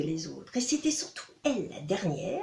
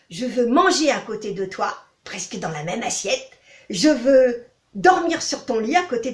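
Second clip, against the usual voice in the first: toad voice; 4 dB louder than usual. Acted. Toad bargains with princess.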